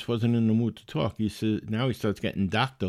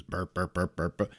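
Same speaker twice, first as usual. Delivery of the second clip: quick soft mock burps; little rapid-fire burp noises; imitating burps; 3 semitones lower, 5 dB quieter than usual. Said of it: "rapid fire, little belches".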